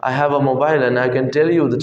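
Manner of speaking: imitated reply. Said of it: "वो कह सकता है".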